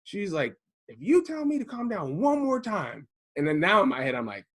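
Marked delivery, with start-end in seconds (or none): 0.9-3.1 high-pitched warning, imitated; mock threat. Hurt wife warns husband about calm down, mock threatening. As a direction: mimic a fed-up wife's ultimatum.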